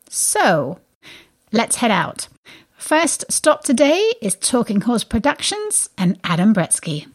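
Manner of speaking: scripted show intro with punched key words; lively, polished arts-radio host delivery; radio presenter read. Acted. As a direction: present the show to listeners, emphatic and deliberate.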